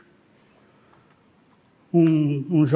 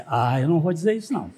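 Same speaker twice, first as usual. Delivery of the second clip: laughing refusal; 4 dB quieter, much faster than usual. Retold or imitated. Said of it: "Aí ele disse".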